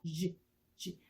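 쥐 as a buzzing sh with a touch of ㅈ; voiced ZH sound. Shown as a demonstration. Teacher contrasts with sh, voiced buzzing 쥐. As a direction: keep pouted lips and add voice on "쥐". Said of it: "약간 지읒을 넣어서".

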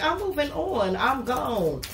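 voicing the client dumping the partner, fading to sorry; mock breakup speech. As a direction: act out the client leaving a partner. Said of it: "You was like".

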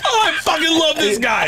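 very high, laughing squeal; helpless delight. Real, not acted. Comic hears a story about Poopies, cracking up. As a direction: cry it out through real laughter.

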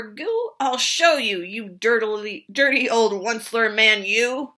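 scolding. Acted. Lorax scolding.

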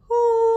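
high, loud owl hoo; owl hoot. Acted. Owl sound in rhyme.

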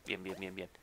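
very soft, voiceless whisper; hushed, under the breath; whispered relief. Real, not acted. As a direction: whisper it quickly to yourself. Muttering to self after near mishap.

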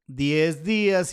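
a little slow, settling on the words; finishing the dictation. Real, not acted. Confirming the label to viewers, a bit slow. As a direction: say it as the writing ends. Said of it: "y ahí dice diez días".

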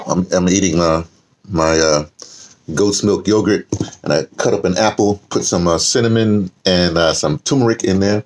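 talking with a mouth full of food; chewing breakfast while talking. Real, not acted. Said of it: "I can't talk to my mouth full".

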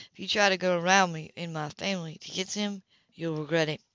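understated stern man; lightly voiced Philip. Philip voiced in a read novel.

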